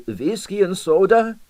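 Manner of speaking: eager Russian host, rising offer; Russian accent. A narrator's reading. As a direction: hospitable Russian old man.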